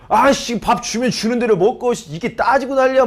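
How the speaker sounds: a touch of an irritated restaurant owner grumbling; mildly hammed-up annoyed rant; mock angry owner. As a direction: grouse at the customer behind his back. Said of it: "막 이러면서 막 화를 내고".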